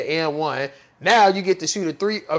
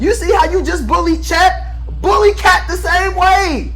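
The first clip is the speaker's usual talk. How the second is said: raised voice, calling out a player; heated rant; 6 semitones higher than usual. Real, not acted. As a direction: yell it like a fed-up fan. Yelling advice at Wembanyama.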